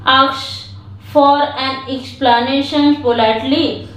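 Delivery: slow, even reading for learners; slow read-aloud. Shown as a demonstration. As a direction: read it out word by word, slowly. Reads the English passage slowly. (धीमी गति से पाठ पढ़ना)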